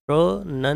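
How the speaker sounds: प्रोनंसिएशन split as pro-nun-si-ay-shun; syllable-by-syllable. Shown as a demonstration. Teacher breaks word into syllables.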